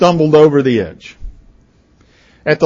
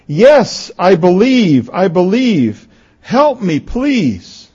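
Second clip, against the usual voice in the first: higher-pitched, acted plea; desperate pleading; 6 semitones higher, slower than usual. Boy on a cliff begging the voice, pleading. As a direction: plead like someone hanging on.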